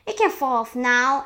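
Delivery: loud call; shouted. A narrator's reading. An aunt as the peach touches ground, shouted. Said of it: "and Sponge shouted".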